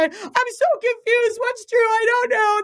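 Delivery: high, slow, teary mock plea; a follower tells the assistant she is confused, high and slow; imitating confused follower. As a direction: sound lost and close to tears, drawn out. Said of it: "reach out to my assistant Jennifer and say".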